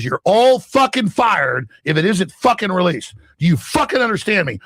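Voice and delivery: hammed-up boss blowing his top; retold angry yell. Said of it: "he yelled some".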